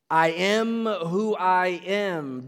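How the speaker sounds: I am who I am, slow and measured; slow, solemn divine proclamation; voice of God. Retold or imitated. Pastor voices God in the burning bush, slow and solemn. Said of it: "the voice from the bush says".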